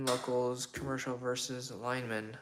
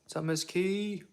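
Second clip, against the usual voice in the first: whispering; 8 semitones higher, slower than usual. Real, not acted. Sudden whispered greeting to viewer.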